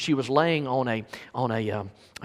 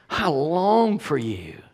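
tender longing; much slower than usual. Acted. Voices Paul's deep affection.

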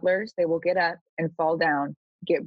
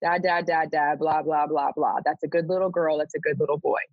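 put-on sing-song, condescending baby talk, lightly done; mock baby talk. Reader mocking a prophet who talks down to them, mock baby talk. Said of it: "to be talked down to".

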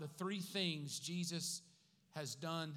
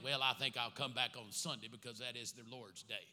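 mock musing Jesus; 7 semitones lower, 4 dB quieter than usual.

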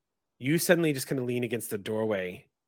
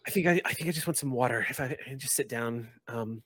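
flustered student; faster than usual. Acted. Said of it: "glances about and says".

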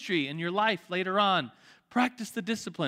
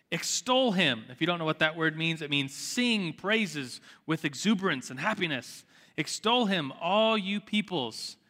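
scripture reading. Acted. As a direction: read the verses out with weight. Reads psalm aloud.

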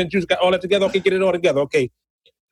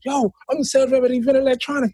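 street voice; 8 semitones higher, faster than usual. Retold or imitated. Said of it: "I said".

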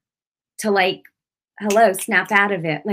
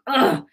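short, higher-pitched "ugh"; fired-up groan; 5 semitones higher, 4 dB louder than usual. Retold or imitated. Woman as the Spirit comes over her, fired-up groan. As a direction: let out a worked-up grunt. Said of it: "came over me and I was like".

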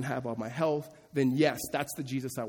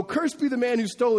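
mock solemn curse, higher and louder; mother cursing; 8 semitones higher, 4 dB louder than usual. Pastor voicing Micah's mother cursing the thief, mock solemn. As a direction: play the outraged mother pronouncing a curse. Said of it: "He hears his mom go".

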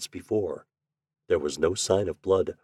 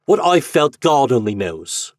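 savage; 6 semitones higher, 6 dB louder than usual. A narrator's reading. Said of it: "he answered savagely".

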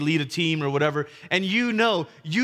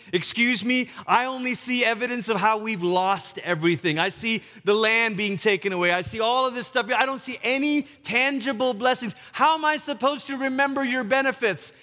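rising, high-pitched complaint; exasperated protest; 4 semitones higher than usual. Acted. Doubter who sees no blessings, exasperated protest. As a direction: pile up grievances, climbing to an incredulous question.

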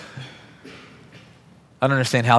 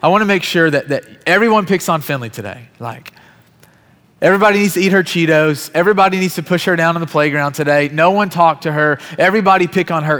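cruel teacher; 4 semitones higher than usual. Retold or imitated. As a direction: announce it to the class like a gleeful bully. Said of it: "her pointing the attention to Finley".

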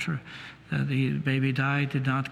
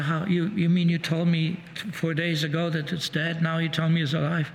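retold arguing, slightly raised voice; mild mock yell; 3 semitones higher than usual. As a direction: imitate a disbelieving mother challenging the doctor. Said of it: "She was arguing with him, yelling at him".

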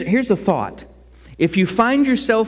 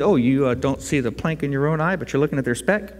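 voicing God; 5 semitones lower, faster than usual. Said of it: "and God goes".

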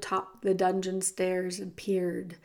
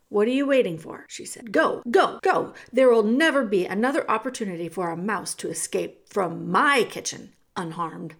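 loud, urgent cook shooing the mouse; Cook's rough voice; 5 dB louder than usual. Acted. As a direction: push him to run, now.

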